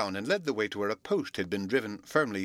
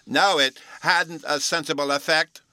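loud, slow indignant protest; 8 semitones higher, 8 dB louder than usual. A narrator's reading. Bruno protesting to the professor, loud and indignant. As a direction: protest hotly, word by word. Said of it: "Bruno said indignantly".

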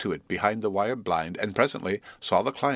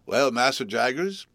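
head-cold voice; 4 semitones higher, 3 dB louder than usual. Acted. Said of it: "voice of a sufferer from a constitutional cold".

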